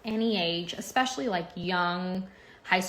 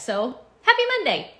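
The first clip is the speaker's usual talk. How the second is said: higher and louder happy Monday; excited greeting; 8 semitones higher, 8 dB louder than usual. Real, not acted. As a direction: throw out an upbeat happy Monday. Cheerful repeat of greeting.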